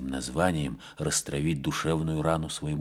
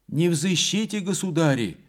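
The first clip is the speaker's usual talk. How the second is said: much higher, unsteady frightened nun; faltering voice; 11 semitones higher, 4 dB louder than usual. A narrator's reading. Frightened gatekeeper nun refusing the riders in a high faltering voice. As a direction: stammer it out through the gate, scared. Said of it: "сказала она неверным языком".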